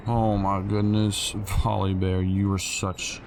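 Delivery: exasperated complaint. Real, not acted. Gamer scolds teammate Volibear for being an annoyance, exasperated and drawn out. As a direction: let the teammate have it, dragging the words.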